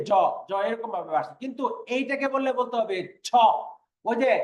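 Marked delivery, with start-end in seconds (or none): 0.1-0.1 জ said lightly, without a puff of air; light, unforced consonant. Shown as a demonstration. Teacher showing students an easy sound, জ said lightly. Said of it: "হালকাভাবে". 3.3-3.3 ছ pushed out with a strong puff of air; press, then release ছ with extra breath; forceful aspiration. Shown as a demonstration. Teacher contrasting it with জ, ছ strongly aspirated. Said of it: "চাপ দিয়ে বেশি বাতাস বের করতে হবে".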